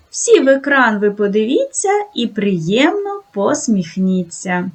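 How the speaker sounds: lilting recited greeting verse; classroom rhyme. Acted. Teacher to first graders, a sing-song rhyme. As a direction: chant it to settle the children.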